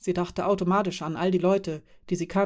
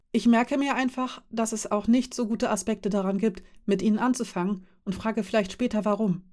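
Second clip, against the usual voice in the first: put-on lightly higher young woman, keen; Kanta, eager and reassuring; 3 semitones higher than usual. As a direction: reassure him you'll ask later, in Kanta's lighter voice. Kanta voiced by narrator. (Kanta, eifrig beruhigend, leicht höher)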